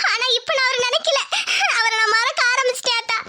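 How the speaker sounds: words broken by sobs; tearful confession. Acted. Daughter admitting old love to her mother, tearful confession. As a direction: confess through tears.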